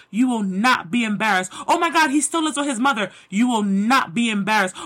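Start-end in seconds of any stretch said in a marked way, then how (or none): 1.7-3.1 quick, snide mimicry of a gossiping neighbour; lightly mocked gossip voice; mocking gossip. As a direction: rattle it off like a nosy busybody. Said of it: "people who may be mocking you".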